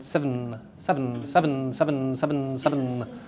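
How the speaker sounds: seven, squeezed to sev'n, one beat; one-syllable seven. Shown as a demonstration. Teacher repeating seven, elided for students. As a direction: fold seven, into a single syllable. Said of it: "make it down to one".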